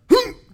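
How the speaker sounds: short, explosive mouth noise; imitated thump. Fisherman showing how the fish hit, imitated thump noise. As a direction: make the sound of a sudden heavy strike. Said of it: "he was like".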